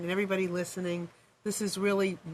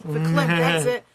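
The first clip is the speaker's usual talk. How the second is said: emphatic verklempt; 2 semitones lower, 8 dB louder than usual. Real, not acted. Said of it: "I'm verklempt".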